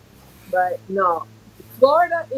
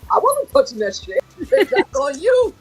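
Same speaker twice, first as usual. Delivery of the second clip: laughing; 7 semitones higher, 5 dB louder than usual. Retold or imitated. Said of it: "I'm like".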